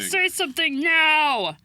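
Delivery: loud demand. Retold or imitated. Mocking Shinso.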